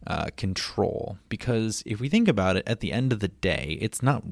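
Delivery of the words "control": "control" drawn out slowly and set apart; stress on control. Real, not acted. Podcaster flags the key word for listeners, stressed, slow "control". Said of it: "I do want to emphasize the word".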